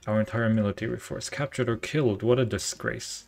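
put-on a light British officer accent; a hint of a British commanding officer. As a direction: play the Admiral with a mild British accent. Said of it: "He's British".

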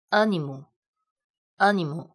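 animu drawn out slowly, closed a, mouth not opened wide; slow model reading. Shown as a demonstration. Teacher modeling "animu" slowly for students. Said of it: "不要把嘴巴打开".

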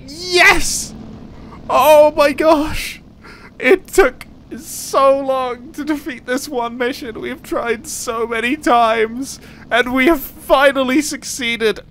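high, ecstatic victory cry; overjoyed. Real, not acted. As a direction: shout with relief and joy. Mission finally won.

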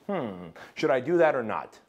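mock pondering, opening on a musing hmm; wondering. Imitating everyone else who sits there thinking about it, wondering. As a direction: act out a hesitant thinker weighing it up. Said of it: "sitting there thinking about it and wondering".

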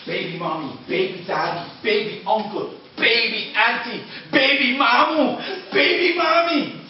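chief calling every relative, ending in laughter; shouting. Acted. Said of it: "And he shouted".

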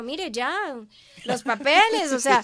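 loud, pushy retold father; father insisting. Papá insisting loudly she come back for her papers. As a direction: lean in hard like a dad telling her to come home.

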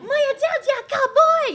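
mock-eager answer to the Mongolian man; eager mock reply. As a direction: play along in broken English. Her eager reply, acted.

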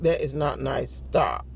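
slow, measured telling-off, retold; gentle scolding. Repeats scolding to the child.

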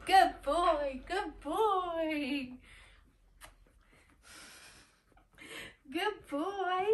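high, squeaky dog praise; squeaky praising a dog. Real, not acted. Praising the dog in baby talk.

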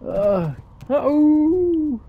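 a sharp, high cry of alarm; startled uh-oh. Acted. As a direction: yelp it in sudden alarm. Sudden danger in game scene.

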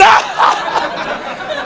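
exaggerated bully laugh; mock coach's cackle. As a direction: bray a mocking laugh at the kids. Coach's laugh ending the acted line.

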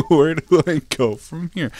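high, loud laugh then laughing question; laughing squeal. Real, not acted. Lost in the game level, loud high laughing question. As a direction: cackle then ask through it.

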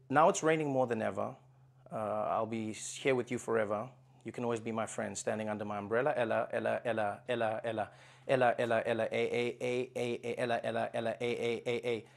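song lyrics spoken, not sung. Shown as a demonstration. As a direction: read the lyrics deadpan. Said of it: "I spoke it".

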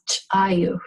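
"chayu" with a popped CH, then a tiny break; "chayu" opened by an ejective ch. Shown as a demonstration. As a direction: pop the first sound of "chayu". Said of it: "so pop that out".

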